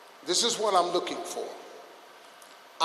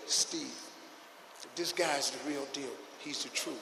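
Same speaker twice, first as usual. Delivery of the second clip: friend's quote; 6 semitones lower, 13 dB quieter than usual. Retold or imitated. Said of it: "M Z told me".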